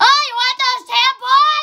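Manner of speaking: high, shrill, loud, blaring yell. Telling friends about store clerks and girls buying tampons, imitating a clerk yelling. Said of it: "just yells".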